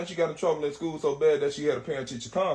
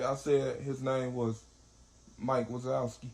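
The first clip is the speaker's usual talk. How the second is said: nervous niece; 5 semitones lower, 5 dB quieter, slower than usual. Retold or imitated. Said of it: "My little niece say".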